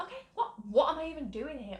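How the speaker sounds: high, disbelieving laugh through the words; incredulous self-talk. Retold or imitated. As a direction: laugh at your own panic, pitch jumping up. Panicking self-talk in hospital bathroom.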